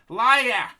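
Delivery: high, heated shout; sharp high-pitched outburst; shouted accusation. A narrator's reading. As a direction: hurl it out as an accusation. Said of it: "shouted Bucky".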